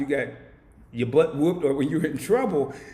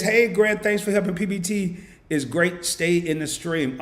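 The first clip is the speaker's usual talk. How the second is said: excited read-out; 4 semitones higher than usual. Real, not acted. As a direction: read it out with a big boost. Reading a chat message excitedly.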